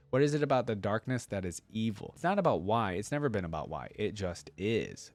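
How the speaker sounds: lightly voiced devout young warrior, earnest; Leona's reply read. Reading Leona's thoughts and reply.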